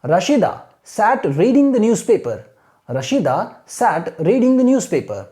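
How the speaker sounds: very slow, careful read-aloud; slow teacher demo reading; slow model reading. Shown as a demonstration. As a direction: read it slowly for students to copy. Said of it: "ऐसे ही आपको imitate करना है".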